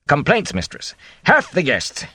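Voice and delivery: lightly voiced nervous innkeeper; a mild, harried innkeeper. Innkeeper nervously raising guests' complaints, lightly voiced.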